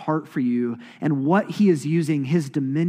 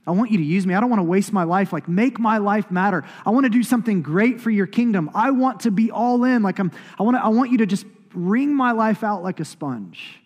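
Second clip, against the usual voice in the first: higher-pitched, impassioned plea to God; fervent youthful prayer; 5 semitones higher, 4 dB louder than usual. Retold or imitated. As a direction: re-enact an eager teenager's prayer, pressing harder. Acts out his teenage prayer.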